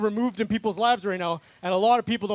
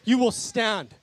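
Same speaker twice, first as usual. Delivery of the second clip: preaching declaration. Real, not acted. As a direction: declare it over the crowd with force.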